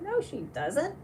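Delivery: high, mock-indignant rebuttal; retold contradiction. Retelling a back-and-forth disagreement.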